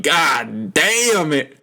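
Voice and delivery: a lightly put-on Southern drawl, slowed; imitating a Southern owner, half-joking; bad southern accent. Owner grumbling about the fine, weak Southern accent. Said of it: "I tried to do a southern accent".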